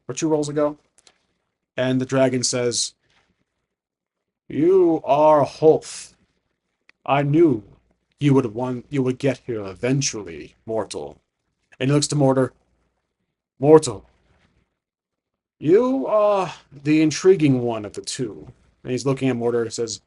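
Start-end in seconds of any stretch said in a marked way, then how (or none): 4.5-11.2 slow, grand dragon greeting; ancient dragon. Acted. Dragon addressing the adventurer who reached him, slow and grand. Game master voices the dragon. 13.6-18.5 slow, grand dragon greeting; ancient dragon. Acted. Dragon addressing the adventurer who reached him, slow and grand.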